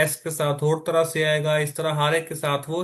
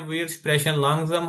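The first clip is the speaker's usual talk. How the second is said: very slow, each word drawn out; slow speech; much slower than usual. Shown as a demonstration. Teacher slowing down for students, very slow. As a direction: spell it out slowly for learners. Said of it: "हम आहिस्ता से बोलते हैं".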